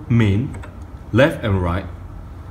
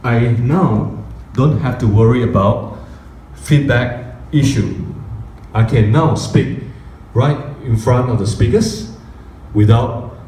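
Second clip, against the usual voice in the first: speaking through the mic. Shown as a demonstration. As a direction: talk right into the mic to show off the volume. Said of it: "this loudness".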